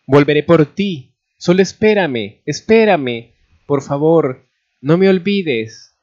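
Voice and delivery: high, loud, urgent parting cry; desperate pleading. A narrator's reading. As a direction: plead from a departing train, stretching the last words. Lover pleading from departing train.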